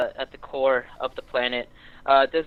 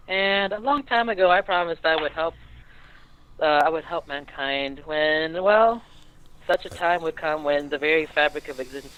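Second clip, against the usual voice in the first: put-on denizen girl; 2 semitones higher than usual. GM voices denizen speech.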